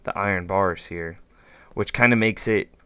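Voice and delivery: ordinary talk, nothing marked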